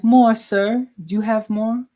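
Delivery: put-on little kid begging. Quoting the begging-kid meme to chat, imitating the pleading voice. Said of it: "I don't even know how to do the accent properly".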